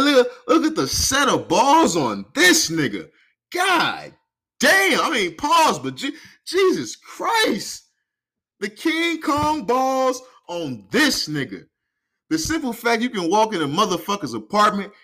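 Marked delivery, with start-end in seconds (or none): 0.0-11.6 slow, high disbelief at his nerve; incredulous. Real, not acted. Host to listeners, slow stunned disbelief at officer. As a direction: drag it out, stunned.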